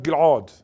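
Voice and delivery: GILAD with a gulp in the throat before the second vowel; pharyngeal pronunciation. Shown as a demonstration. Lecturer rejecting this form of his name, pharyngeal pronunciation. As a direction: say Gilad as Gil-'od, broken by a throat gulp. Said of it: "there is an pharyngeal gulp".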